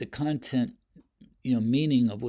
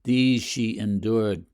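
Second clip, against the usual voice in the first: slow, weighted These she endured; a touch of solemnity; grave emphasis; 5 dB louder, slower than usual. Shown as a demonstration. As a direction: say it slowly with gravity. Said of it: "it sounds like an autopsy".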